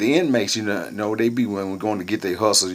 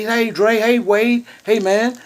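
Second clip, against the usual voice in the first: high, pleading mock voice of another inmate; squeaky wheedling begging for favors; imitating the guy; 12 semitones higher, 4 dB louder, slower than usual. Inmate begging the kitchen captain for cookies, high mock voice. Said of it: "This is the, uh, conversation by guy".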